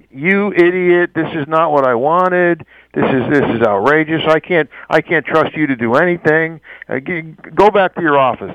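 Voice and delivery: mildly angry boss tirade, stretched at first; retold bonkers boss. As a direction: imitate an outraged boss scolding an employee. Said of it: "he goes absolutely bonkers".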